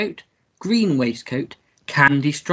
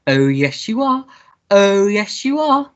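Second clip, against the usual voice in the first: put-on baby talk; 3 semitones higher than usual. Cooing at the teddy bear.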